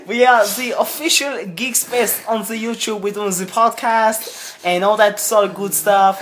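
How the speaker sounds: a loud mock Swede, laughing through it; Swedish accent. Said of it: "I've gone from German to Swedish".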